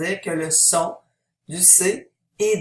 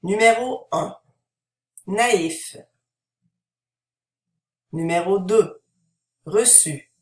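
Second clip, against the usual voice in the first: numbered pronunciation drill. Shown as a demonstration. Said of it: "vous pouvez essayer de prononcer".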